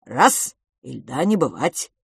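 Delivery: worried creature. Acted. Creature worriedly explains heat is death for his kind. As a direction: warn them earnestly. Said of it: "озабоченно покачал головой".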